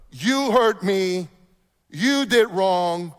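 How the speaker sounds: "You hurt me. You did wrong." very slowly, with "You" pressed hard; accusing you-statement. Shown as a demonstration. Pastor showing the wrong way to confront, slow and accusing. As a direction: point the finger, slow and pointed. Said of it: "You get the difference?".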